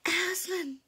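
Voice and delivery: high loud call of his name; joyful cry. A narrator's reading. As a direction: cry out, glad and afraid. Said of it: "cried both the children".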